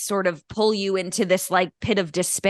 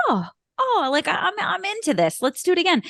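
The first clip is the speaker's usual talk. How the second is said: raised, eager gush; gushing excitement; 8 semitones higher than usual. Retold or imitated. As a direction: act the thrilled fan being won over. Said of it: "I was like".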